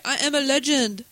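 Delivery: mock Jamaican accent; a hammy Jamaican accent. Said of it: "That's my Jamaican accent".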